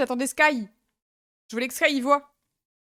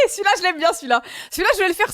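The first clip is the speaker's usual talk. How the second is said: delighted; 5 semitones higher, faster than usual. Real, not acted. Delighted at a sub goal.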